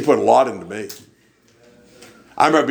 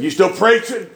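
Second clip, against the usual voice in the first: high-pitched imitation of a preacher; preacher on the phone; 8 semitones higher, 3 dB louder than usual. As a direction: ask it high, as the preacher on the line. Voicing Brother Herbert on the phone.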